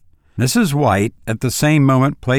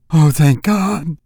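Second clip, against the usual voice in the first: high, drawn-out thanks; old mother's slow, relieved exclamation; fervent relief; 5 semitones higher, slower than usual. A narrator's reading. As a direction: let out heartfelt relief, pitched up. Mother relieved at news of son.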